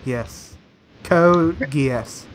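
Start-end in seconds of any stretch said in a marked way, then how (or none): 1.0-2.2 "Code Geass" said as two separated words; careful repetition. Shown as a demonstration. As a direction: say "Code Geass" distinctly, pausing between words. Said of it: "hold on, let me get the mic".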